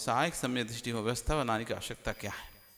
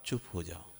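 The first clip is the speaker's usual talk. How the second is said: hushed shush; 9 semitones lower, 9 dB quieter than usual. Retold or imitated. Quoting a hush command.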